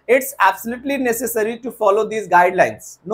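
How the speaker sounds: very slow faulty sentence; slow wrong example. Shown as a demonstration. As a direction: read the wrong line at dictation pace. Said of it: "No sir".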